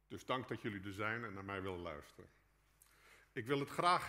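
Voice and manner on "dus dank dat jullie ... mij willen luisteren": ordinary delivery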